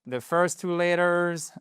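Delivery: "The first two letters" drawn out slowly; slow demo. Shown as a demonstration. Teacher drilling the phrase for learners. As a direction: model it slowly. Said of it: "il faut simplement l'apprendre par cœur".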